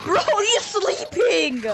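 high, drawn-out cry; exclaimed complaint. Real, not acted. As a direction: call it out in disbelief. Host exclaims about a sleeper.

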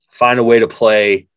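yawning mid-sentence; words stretched by a yawn. Real, not acted. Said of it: "excuse me for yawning".

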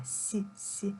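soft hissed "С, с", each by itself; "С, с" as bare soft consonants without a vowel; isolated soft sound. Shown as a demonstration. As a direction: say palatalised "сь" alone, twice. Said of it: "приголосний буде м'яким".

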